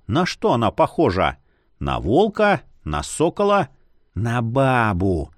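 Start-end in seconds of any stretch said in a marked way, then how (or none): 4.1-5.3 slow drawn-out ghost voice. Acted. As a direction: stretch out бабу, falling, dreamy ghost. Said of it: "проговорил полумесяц".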